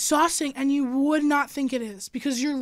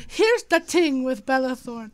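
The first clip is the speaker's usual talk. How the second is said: put-on Jamaican accent; 3 dB louder, slower than usual. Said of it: "read it in, like, a Jamaican accent".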